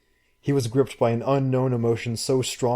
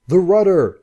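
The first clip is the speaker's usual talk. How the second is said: loud, much higher bellow; 9 semitones higher, 10 dB louder than usual. Acted. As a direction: roar the order at the boat. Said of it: "he bellowed".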